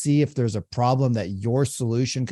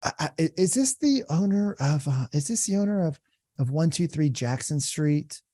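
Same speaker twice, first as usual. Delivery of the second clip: curious caller; 3 semitones higher than usual. Shown as a demonstration. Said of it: "really curious".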